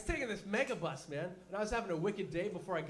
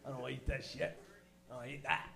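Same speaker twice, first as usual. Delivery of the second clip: put-on disgusted kid; 6 semitones lower, 6 dB quieter, faster than usual. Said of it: "My dad's beard smelled like".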